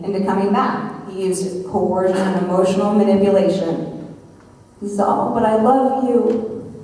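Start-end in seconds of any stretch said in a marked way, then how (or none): 5.1-6.7 slow, higher imitated whimper of love; mock-weepy plea; tearful pleading. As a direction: mimic a man begging through fake tears. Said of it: "He started crying".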